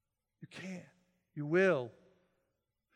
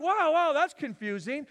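mock confusion; 7 semitones higher, 8 dB louder than usual. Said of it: "It's like".

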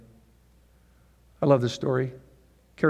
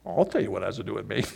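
scolding mom; 2 semitones lower than usual. Acted. Mother scolding son.

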